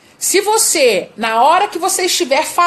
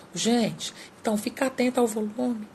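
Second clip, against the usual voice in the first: barely audible, much softer and a bit quicker; too quiet; 11 dB quieter than usual. Shown as a demonstration. Coach demoing a voice too quiet for the audience. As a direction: mumble it so the audience can't hear. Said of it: "Imagine só se eu falasse desse jeito aqui".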